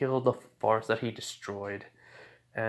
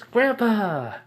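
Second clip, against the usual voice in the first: high, loud gleeful call; drawn-out high cry of delight; excited child's shout; 11 semitones higher, 7 dB louder than usual. Acted. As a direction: call out to grandpa like an excited little kid. Child greets grandfather excitedly.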